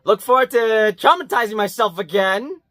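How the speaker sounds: mock enthusiasm, lifted ending; sarcastic. Real, not acted. Reviewer looking forward to traumatizing himself, sarcastic. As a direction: pretend you can hardly wait. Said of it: "Also, I say that sarcastically".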